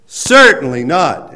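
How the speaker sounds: slow, loud emphatic shout; yelled. Shown as a demonstration. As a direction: shout "Certainly not." slowly and loudly as a firm refusal. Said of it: "I'm yelling because that's the import".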